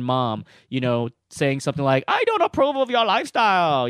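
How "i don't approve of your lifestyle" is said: higher, louder mock Asian mom accent; hammed-up Asian accent as a scolding mom; deliberately horrible Asian-accent mom imitation; bad Asian mom accent. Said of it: "that's a horrible Asian accent".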